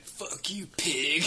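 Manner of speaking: high, loud mock yell of defiance; half-laughing retold shout; retold yell at cop. Yelling at a cop on acid.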